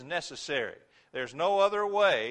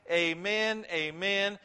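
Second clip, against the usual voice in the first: emphatic proclamation; 3 semitones higher, 3 dB louder, slower than usual. Acted. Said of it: "shining a light bulb on this and saying".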